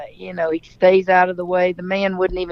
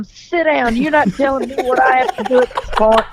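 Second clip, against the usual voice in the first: firm order; 5 semitones higher, faster than usual. Retold or imitated. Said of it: "and I pointed at him".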